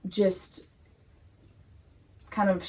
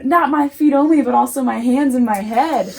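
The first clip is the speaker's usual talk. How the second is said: higher, louder mock enthusiasm; playful exaggerated begging, higher and louder; eager Peter plea; 4 semitones higher, 7 dB louder, faster than usual. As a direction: keep Peter's over-the-top eagerness going. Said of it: "And Peter's like".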